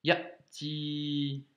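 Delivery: ya'ti with a short catch; a little block before ti; glottal stop. Shown as a demonstration. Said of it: "le blocage". (ya'ti avec le blocage)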